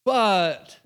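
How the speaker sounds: lightly acted hedging with a drawn-out hesitation; mildly timid, doubtful agreement; nervous, cautious. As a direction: concede reluctantly, then stall. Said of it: "He was still nervous".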